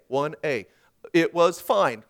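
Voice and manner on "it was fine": stilted, louder scripted reply; scripted recital. Acted. Wife answering her husband from a script, stilted. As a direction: answer mechanically, as if reading the line. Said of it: "Stick to the script".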